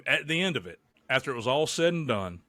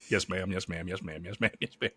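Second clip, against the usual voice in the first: meek yes ma'am; 6 semitones lower, 7 dB quieter than usual. Retold or imitated. Husband caught between two women, meekly giving in. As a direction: lower and fading softer each time. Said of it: "I'm like".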